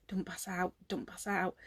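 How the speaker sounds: retold private plea; inner voice. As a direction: mutter it to yourself to stay upright. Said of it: "I just think to myself".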